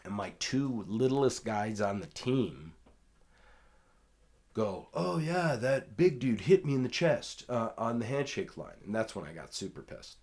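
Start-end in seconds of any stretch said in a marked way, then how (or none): 4.9-8.8 high, louder, eager tattling; eager teammates. Retold or imitated. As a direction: chime in with the news. Voicing the small teammates' report.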